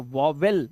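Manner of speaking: वावेल with a second v, "vaw-vel"; mispronounced vowel. Shown as a demonstration. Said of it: "नहीं बोलना है". (वावेल का गलत उच्चारण, "वॉ-वेल")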